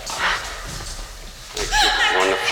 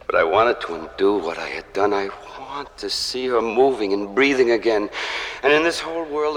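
impassioned pleading. Acted. Monster longing to undo the killing, impassioned pleading. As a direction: plead with rising, swelling urgency. Monster grieves the girl he killed.

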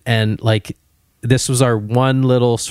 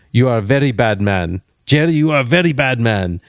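mock Indian accent; 2 semitones higher than usual. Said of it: "wags his finger at Jerry and says".

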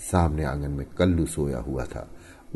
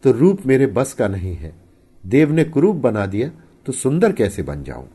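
anguished, raised-voice helplessness; despairing; 6 semitones higher, 5 dB louder than usual. A narrator's reading. Crushed husband lamenting his looks to his wife, despairing. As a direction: protest in hurt, louder and higher. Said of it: "निर्जीव की भांति खाट पर गिर पड़ा और बोला".

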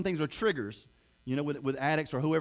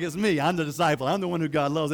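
proud claim; 4 dB louder than usual. Retold or imitated. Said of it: "he was like".

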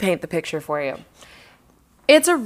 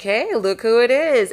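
imitating friend's signal; 5 semitones higher than usual. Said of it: "I see you kinda doing the".

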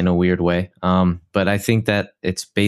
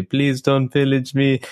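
a lightly voiced, pleading villager, higher and slower; 7 semitones higher, slower than usual. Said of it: "and they would say".

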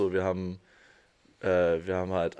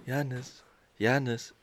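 school announcement; 3 semitones higher, 4 dB quieter than usual. Pretend. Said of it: "das ist so eine Durchsage".

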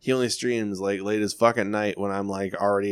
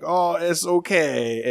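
mock reassurance; 7 semitones higher, much slower than usual. Voicing stream chat's kind reply.

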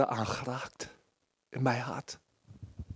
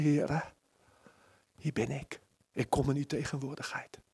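stil gebed; 2 semitones lower, 7 dB quieter than usual. Acted. Quiet surrender prayer.

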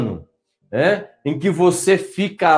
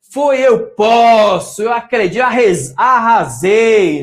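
loud, slow, triumphant boasting; excited self-talk; 5 semitones higher, 5 dB louder, slower than usual. Retold or imitated. Coach imitating a winning player's inner voice, excited. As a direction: gloat like a player who just won. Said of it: "você todo empolgado".

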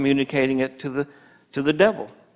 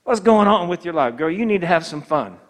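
tempting friend. Retold or imitated. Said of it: "And they start saying".

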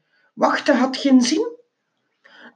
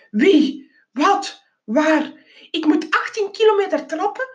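a run of high, fast, frantic questions; panicked outburst; 6 semitones higher than usual. Acted. Geronimo protests to the driver, high and frantic. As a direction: spiral into disbelief.

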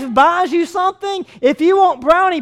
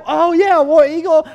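happy cheer; 2 semitones higher than usual. Retold or imitated. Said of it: "whether it be good".

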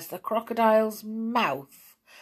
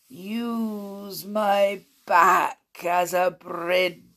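slow, sly crocodile offer; oily crocodile; much slower than usual. A narrator's reading. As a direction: sweet-talk them onto your back. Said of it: "suggested the crocodile".

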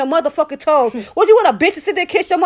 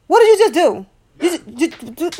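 higher, pointed telling-off of someone nearby; sharp scolding; 3 semitones higher than usual. Real, not acted. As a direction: catch them in the act and demand an answer.

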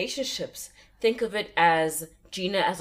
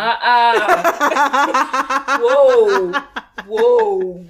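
loud; 5 semitones higher, 13 dB louder, much slower than usual. Real, not acted. Rejects barefoot in kitchen.

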